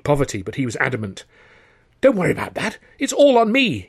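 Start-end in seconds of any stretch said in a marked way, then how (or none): 2.0-3.9 boomingly generous, higher and louder; far too loudly. Acted. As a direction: announce it to the whole room. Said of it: "he said, far too loudly".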